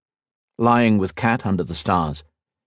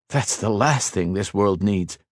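wry smile. Acted. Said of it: "He smiled over at Kat".

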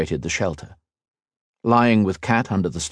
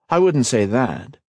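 retort; 5 semitones higher than usual. Acted. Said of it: "Ethan retorted".

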